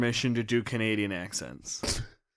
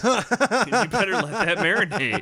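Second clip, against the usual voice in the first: slow tough guy; 7 semitones higher, slower than usual. Pretend.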